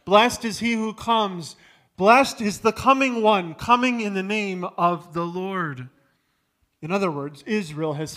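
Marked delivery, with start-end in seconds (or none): 0.0-5.9 loud, ringing crowd acclaim; raised voice hailing the king; crowd yelling. Retold or imitated. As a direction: cry it out like the palm-waving crowd. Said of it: "Israel is now yelling in the streets".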